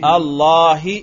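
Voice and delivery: अल्लाही with a clear final i; Arabic جر: اللهِ; Arabic genitive ending. Shown as a demonstration. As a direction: end अल्लाही on a long i sound. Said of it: "जर पे करो".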